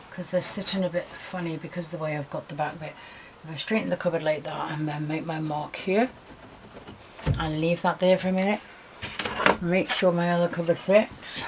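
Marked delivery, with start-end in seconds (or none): 3.4-11.4 talking round a pencil in the teeth; pencil in mouth. Real, not acted. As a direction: speak with a pencil clamped in your mouth. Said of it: "Excuse me with my pencil in my mouth".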